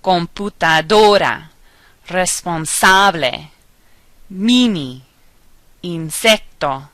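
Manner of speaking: computadora, responsable, pantalones: lean on next-to-last syllable; careful word list, computaDOra, pantaLOnes, each word separate; penultimate stress. Shown as a demonstration. Teacher reading examples, stress on second-to-last syllable as in computaDOra. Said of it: "stress that you say on the second to the last syllable".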